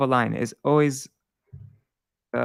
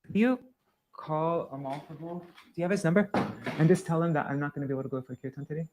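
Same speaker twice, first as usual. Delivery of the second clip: quieter aside, off mic; aside to someone nearby; 3 semitones higher, 7 dB quieter, faster than usual. Real, not acted. Teacher asking a helper to call someone, quiet off-mic aside. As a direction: turn away and ask a favor quietly.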